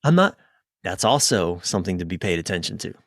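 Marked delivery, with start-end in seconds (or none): 0.0-0.4 higher pitched, dismayed voice; lightly voiced grumbling partner who wants out; a partner balking at ten years, mildly dismayed; reluctant partner. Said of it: "they're like".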